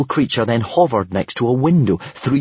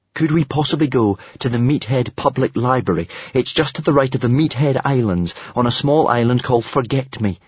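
polite; 3 semitones higher than usual. Acted. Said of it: "Hiccup asked the stealth dragon politely".

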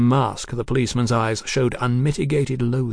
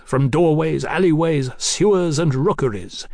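higher, emphatic, building list; militant Marquis; 3 semitones higher, 3 dB louder than usual. Acted. Marquis promising a fight from the rooftops, militant and mounting. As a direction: drive through each place like a battle call.

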